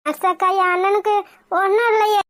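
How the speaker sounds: near tears, worried about her brother; tearful sister begging the nurse; tearful plea. Acted. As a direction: plead through tears. Sister fears for injured brother.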